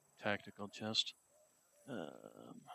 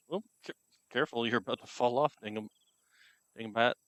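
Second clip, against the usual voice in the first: urgent warning to cat; 7 dB louder, faster than usual. Real, not acted. Warning cat about to fall.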